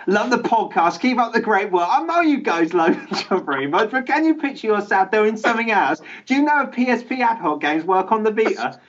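cranked-up mock British read of the email; over-the-top British. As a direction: go crazy British, five notches up. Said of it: "way more British, way louder".

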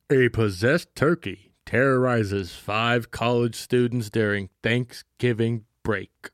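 slow, measured reading with pauses; deliberate, drawn-out movie blurb; dramatic synopsis read. Shown as a demonstration. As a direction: read it out slowly, spacing the phrases. Reads out synopsis after dramatic build-up.

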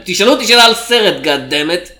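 loud demanding shout. Retold or imitated. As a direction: yell it at a stranger. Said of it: "צועק עליהם".

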